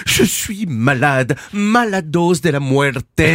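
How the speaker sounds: talking through a blocked nose; sick nasal voice, nose stuffed. Acted. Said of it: "Je parle du nez". (voix nasillarde de malade)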